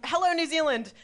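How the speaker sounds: high, mock-grand hello; cheery greeting call. Arriving in New Zealand, high cheery hello.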